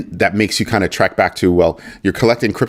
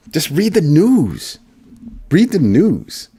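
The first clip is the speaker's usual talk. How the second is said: exasperated; 8 semitones higher, slower than usual. Real, not acted. Exasperated repeated advice.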